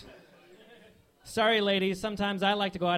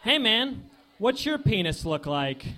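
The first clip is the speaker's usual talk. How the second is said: frat guy voice; 2 semitones higher than usual. Acted. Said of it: "my impression of two guys in a fraternity".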